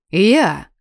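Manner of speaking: indignant exclamation. Acted. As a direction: burst out in disbelief. Indignant outburst. (возмущённый выкрик)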